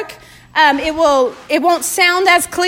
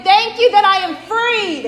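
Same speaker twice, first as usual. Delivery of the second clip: exultant praise; 3 semitones higher than usual. Real, not acted. Preacher leading thanks that shackles are gone, exultant praise. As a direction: proclaim it for the congregation to follow. Leads praise with raised hands.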